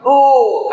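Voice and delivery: high, drawn-out "oh" of pain; mock cry of pain. Seeker pricked by a thorn, acted high cry.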